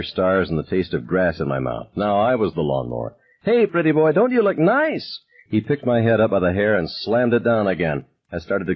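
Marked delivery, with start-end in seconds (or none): 3.4-5.2 sneering bully voice, pitched high; taunting bully. A narrator's reading. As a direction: drag it out to humiliate him. Bully taunting while slamming head.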